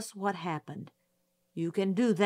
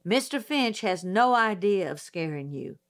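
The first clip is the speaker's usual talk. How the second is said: mild growl meant to soothe; gruff old judge trying to be kind; gruff reassurance; 3 dB louder than usual. Acted. Judge reassuring the witness with a mild growl. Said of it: "he growled".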